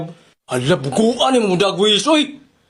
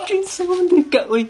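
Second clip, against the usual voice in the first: genie voice; 7 semitones higher than usual. Acted. Genie voice repeated slowly.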